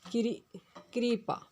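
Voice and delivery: कृपा said slowly, kri then pa; कृपा drawn out syllable by syllable; slow teacher demo. Shown as a demonstration. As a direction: drill कृपा slowly for the class. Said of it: "कृपा शब्द इस तरह से शुद्ध".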